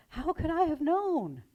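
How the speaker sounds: high, slow, worried plea; a minister fearing what he has done; anxious. A narrator's reading. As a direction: ask it with rising dread. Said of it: "the minister anxiously replied".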